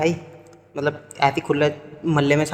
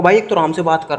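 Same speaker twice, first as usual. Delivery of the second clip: firm raised voice; 4 dB louder than usual. Retold or imitated. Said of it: "मैंने दो तीन बार बोला".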